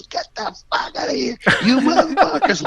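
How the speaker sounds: hammed-up furious yell at the cops. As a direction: tell them off, half laughing. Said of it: "he started yelling and bitching".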